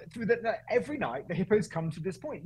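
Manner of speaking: high Welsh lilt for the driver; Welsh accent. Retold or imitated. Driver explains the nightly hippos, high Welsh accent. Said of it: "I went into Welsh accent for the Kenyan".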